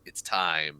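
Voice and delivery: creepy Tsukasa. Retold or imitated. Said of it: "as he says".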